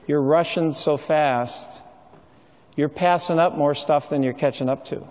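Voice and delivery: slowly, with weight on each phrase; an unhurried caution, letting the words land; slow, pointed advice. Retold or imitated. Elderly patient stops a rushing doctor, slow pointed advice.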